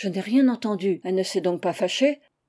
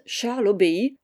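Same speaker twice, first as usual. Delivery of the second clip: ordinary delivery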